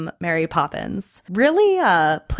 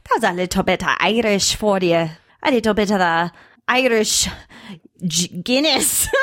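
lightly put-on Irish lilt; playful stage-Irish accent; leprechaun Irish. Shown as a demonstration. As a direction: try a jaunty Irish brogue. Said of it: "it's very leprechaunish".

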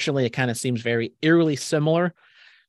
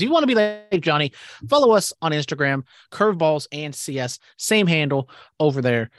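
promo read; 3 semitones higher than usual. Acted. Podcast plug read.

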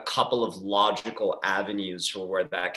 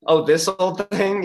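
coy, high, slow faux-humble line; fake modesty; 10 semitones higher, 7 dB louder, slower than usual. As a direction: act surprised anyone noticed the book. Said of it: "to always be like".

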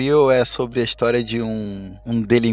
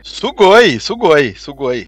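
excited anime fan; 3 semitones higher, 4 dB louder, slower than usual. Real, not acted. Voting Sugoi for the manga.

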